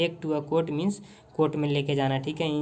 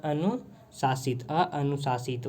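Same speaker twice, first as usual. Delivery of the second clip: slow dictation; 4 dB quieter, much slower than usual. Shown as a demonstration. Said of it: "one minute मैं लिख दूँ".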